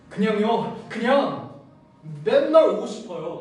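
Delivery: eager lovestruck plea. Retold or imitated. Smitten young man begging the woman he likes to let him come daily, high and gushing. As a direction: gush like an infatuated puppy.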